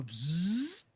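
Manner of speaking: buzzing zap sound; bug zapper zap. Retold or imitated. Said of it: "as you go".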